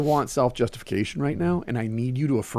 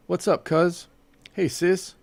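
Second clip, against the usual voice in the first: higher, casual hello to kin; familiar greeting; 7 semitones higher, much slower than usual. Retold or imitated. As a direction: imitate an easy greeting among your own folk. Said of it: "How come you talk differently here than there".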